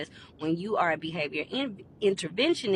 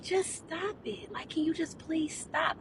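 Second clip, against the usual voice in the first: nice request; 9 semitones higher, 4 dB quieter, slower than usual. Retold or imitated. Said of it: "I said it to her nicely".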